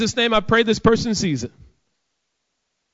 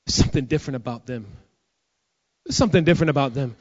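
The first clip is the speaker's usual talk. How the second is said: hurried retold whisper; 6 semitones lower, faster than usual. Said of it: "she said".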